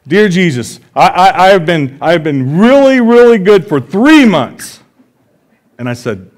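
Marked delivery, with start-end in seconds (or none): 0.1-4.8 put-on young daughter's voice. Dad voicing his daughter reading her letter to Jesus, high and childlike. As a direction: play the kid bargaining with Jesus.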